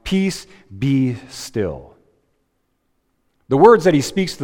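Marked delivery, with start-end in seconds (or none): 0.1-1.9 calm command. Acted. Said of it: "He rebukes the storm".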